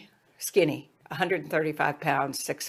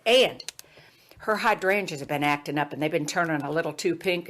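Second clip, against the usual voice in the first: put-on Jim Hickson, Southern accent. Student moves on to mama's flowers, Southern accent. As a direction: imitate an earnest Southern son. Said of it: "he had this Southern accent".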